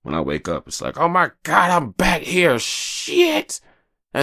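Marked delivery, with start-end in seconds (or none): 1.0-3.6 high, loud whiny despair; high whine of waking-up dread; mock morning dread. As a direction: groan at waking up again. Waking up depressed, acted groan.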